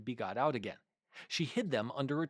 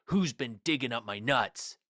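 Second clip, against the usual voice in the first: shouting into hole; 5 dB louder than usual. A narrator's reading. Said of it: "he shouted into the hole".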